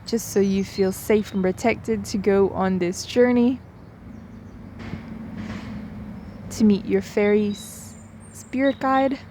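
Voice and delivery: unhurried meditation guide with long pauses; guided meditation. Real, not acted. Guide inviting listeners to settle in, guided meditation voice. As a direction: gently lead them in, leaving space between phrases.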